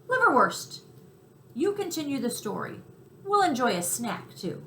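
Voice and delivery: high, loud gleeful mouse; thrilled to share a treat; delighted mouse. Acted. Tucker offers the cricket a snack, high and gleeful.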